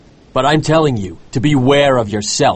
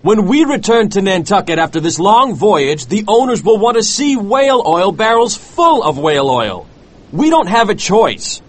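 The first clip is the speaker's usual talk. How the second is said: high, urgent pleading; desperate plea; 8 semitones higher than usual. A narrator's reading. First mate pleads with captain to check barrels, desperate. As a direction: argue insistently in a high, put-on voice.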